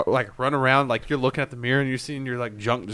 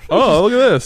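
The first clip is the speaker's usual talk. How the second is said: duck voice; 8 semitones higher, 8 dB louder than usual. Pretend. Mock admiring voice in the mirror.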